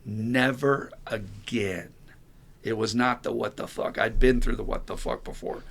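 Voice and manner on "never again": quiet resolve. Retold or imitated. Sponsor alone after the door slam, quietly resolved. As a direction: let each word land softly, drawn out.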